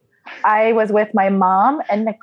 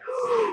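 shocked gasp; 12 semitones higher, 9 dB quieter than usual. Retold or imitated. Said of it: "I was like".

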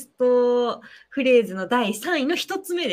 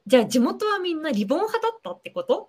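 laughing quote; 4 semitones higher than usual. Retold or imitated. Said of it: "です".

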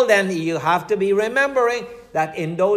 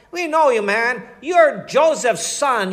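mocking crowd; 4 semitones higher than usual. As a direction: sneer at him like the doubting crowd. Crowd mocks Jesus' origins.

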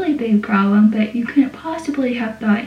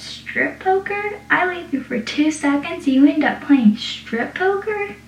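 incredulous; 5 semitones higher than usual. Retold or imitated. Joey catching Pacey at strip poker, high shocked disbelief. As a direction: act shocked at the card game.

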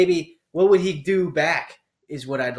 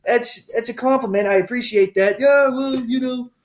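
hammed-up argument; 8 semitones higher than usual. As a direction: act out both sides of a bar spat. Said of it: "this rant".

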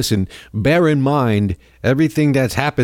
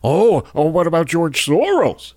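sneering whiny parody of a right-winger, slightly higher; mocking right-wing critics; 5 semitones higher than usual. Host mocks right-wing critics' Soros comeback, sneering parody voice. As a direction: mimic the critics' stock comeback with scorn. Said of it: "right-wing racists and Nazis are quick to point out".

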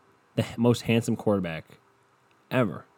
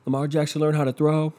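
hyped fan voice, higher and louder; mocking hyped fans; 4 semitones higher, 3 dB louder than usual. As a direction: ham up an overexcited fan. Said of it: "everyone was like".

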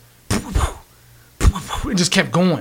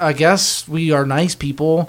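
slow, grudging agreement; reluctant; slower than usual. Retold or imitated. Moviegoers giving up their seats, slow and reluctant. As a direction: drag it out as a reluctant concession. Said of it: "Like, kinda reluctantly".

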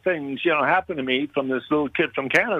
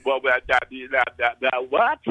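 low, slowing, lightly acted stunned stutter; flustered stammer; 4 semitones lower than usual. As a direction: imitate being lost for words, stumbling on "that". Acts out being stunned on phone.

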